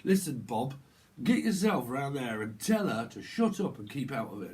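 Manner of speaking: mild mock neighbourhood row; lightly acted, insistent telling-off; council estate argument. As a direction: order Bob about as in an estate argument. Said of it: "this council estate type argument".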